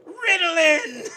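loud slow shout of the catchphrase. Acted. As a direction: bellow it like a wrestler. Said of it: "my catchphrase".

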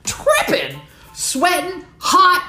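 high, rushed panic words; frantic list. Acted. Describing her panic to the audience, high and rushed. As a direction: spit out the symptoms in a panic.

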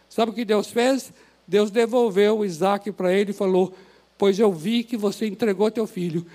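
ordinary delivery

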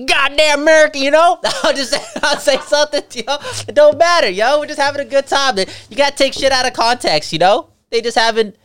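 high, loud and laughing; boisterous mock outburst. Canadian answering the joking American, boisterous mock outburst. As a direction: play up a good-humoured rant.

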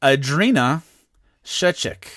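each name set apart by a pause; careful repeat. Real, not acted. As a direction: repeat the name clearly, in two separate parts. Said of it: "Say that again?".

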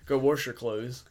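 badly faked country accent; mock order in a country voice. Bossing her in jest, country voice. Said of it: "my country voice".

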